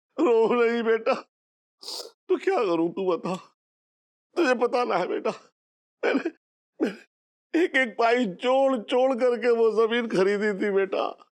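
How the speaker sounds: speaking through sobs, tearful. A father answers his child, who begs him to stop crying, crying while talking. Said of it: "रोना बंद करो।".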